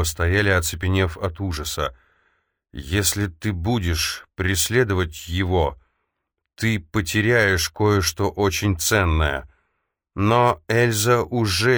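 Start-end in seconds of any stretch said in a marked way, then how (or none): 2.7-9.5 slow ominous oracle echo; prophetic trance voice. Acted. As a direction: repeat it like a grave prophecy. Oracle prophecy repeated in memory.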